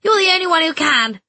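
high, loud urging voice; encouraging call. A narrator's reading. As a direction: urge her on warmly. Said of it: "Missus Quayle called from the organ".

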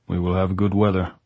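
dull, level delivery; heavy, dull voice. A narrator's reading. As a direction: say it heavily, without lift. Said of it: "dull voice".

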